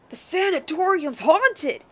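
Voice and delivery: lightly voiced old man. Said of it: "I need to get my old man voice".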